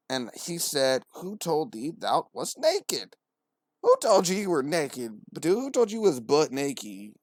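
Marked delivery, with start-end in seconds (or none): 1.1-3.2 slow, drawn-out archaic question; mildly pretentious. Acted. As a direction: read it slowly with mock-solemn grandeur. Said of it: "why are you so pretentious?".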